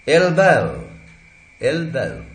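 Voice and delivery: "एल्बो" with a clear opening e vowel; full-form pronunciation. Shown as a demonstration. Teacher showing the word before reduction, full pronunciation. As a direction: say "एल्बो" as two full syllables, "el-bow". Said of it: "एल्बो दो syllable का word".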